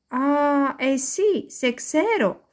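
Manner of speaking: put-on a child calling out in surprise; little girl calling. A narrator's reading. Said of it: "φώναξε το μικρό κορίτσι".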